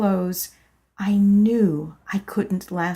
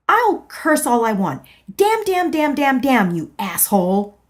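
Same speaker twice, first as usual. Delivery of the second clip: louder, higher damn damn damn; defiant cursing; 5 semitones higher, 5 dB louder than usual. Acted. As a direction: spit out each damn. Arguing with husband.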